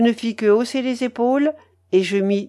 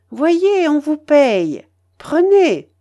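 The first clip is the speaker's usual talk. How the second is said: croupier paying out; 6 semitones higher, 6 dB louder, slower than usual. A narrator's reading.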